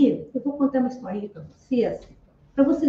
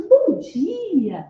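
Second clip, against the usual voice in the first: bright, cheery good morning, slightly raised; cheerful greeting; 4 semitones higher than usual. Retold or imitated. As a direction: greet him happily. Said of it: "Bem alegre". (saudação alegre, um pouco mais aguda)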